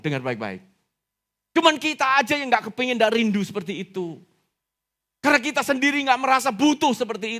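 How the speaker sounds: high-pitched, fervent exhortation; full-force preaching. Real, not acted. Preacher exhorts congregation to long for the Father, full-force.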